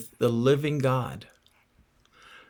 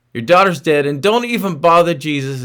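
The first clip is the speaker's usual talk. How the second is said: louder, blunt voice of despair declaring "Your daughter's dead"; the taunting voice of doubt, pushing hard on "daughter's"; hopeless voice, insisting loudly; voice of hopelessness; 5 dB louder than usual. Retold or imitated. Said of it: "Do you ever hear that voice that says".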